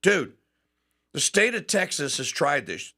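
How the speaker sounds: ordinary delivery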